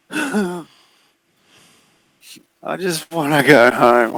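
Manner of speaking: put-on high, slowed plea of a little girl; lightly voiced child begging to go home; scared girl. Maddie begging the figure to let her go home.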